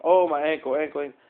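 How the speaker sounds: hammed-up fake pain over the ankle; mock moan, milking a fake sprain; faked injury. Faking a hurt ankle to dodge the hike, hammed-up moaning. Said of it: "I had to fake".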